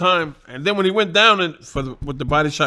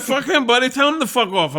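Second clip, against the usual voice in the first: imitating Paul, riled up; 9 semitones higher than usual. Paul voiced insisting.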